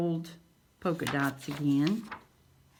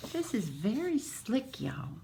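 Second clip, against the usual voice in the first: whisper; 3 semitones higher, 5 dB quieter than usual. Real, not acted. Hushed over a sheet of vellum.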